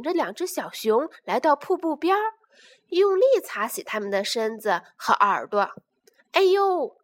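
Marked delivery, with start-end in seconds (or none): 6.3-7.0 high little ouch; yelp of pain. Acted. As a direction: yelp as if scrubbed too hard. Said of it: "疼得轻轻地叫唤起来".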